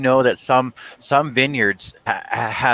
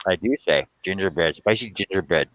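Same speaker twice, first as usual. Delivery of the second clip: mouth full; 3 semitones lower than usual. Real, not acted. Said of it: "how can we tell when your mouth is full".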